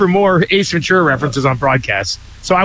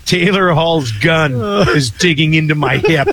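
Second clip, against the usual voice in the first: slow savoring read. Acted. Re-reading favourite text, savoring.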